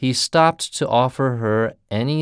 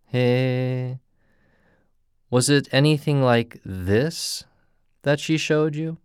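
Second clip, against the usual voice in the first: eerie cry; 3 semitones higher than usual. Acted. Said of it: "cried the soba man".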